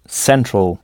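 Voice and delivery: "central" struck on "cen", slow, with a reduced ending; stress before -al. Shown as a demonstration. Teacher showing learners English central, slow, stress on "cen". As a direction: hit the "cen" of "central", slowly. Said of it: "on frappe la syllabe qui vient avant la terminaison".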